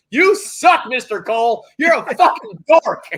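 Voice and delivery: high, loud mocking taunt; teenage heckler. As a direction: jeer at him like a kid. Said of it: "And it's like".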